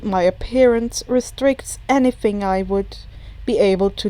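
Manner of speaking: low, smooth villain voice; suave villain. Acted. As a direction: purr it regretfully. All for One low, far.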